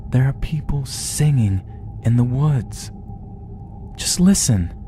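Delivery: put-on high, hushed plea of a boy to his dad; insistent, high-voiced begging to be believed; urgent pleading. A narrator's reading. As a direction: plead softly but urgently, pitched well up.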